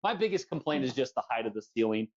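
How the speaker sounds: usual speaking voice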